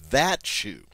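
THAT stressed high, shoe falling; contrastive stress. Shown as a demonstration. Teacher translating that shoe for learners, stress on THAT. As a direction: hit THAT to single it out. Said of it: "I absolutely want to make sure you know".

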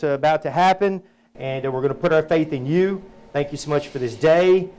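earnest spoken prayer to the Father. Acted. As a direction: lift it up sincerely, like leading a group prayer. Opening prayer before the webinar.

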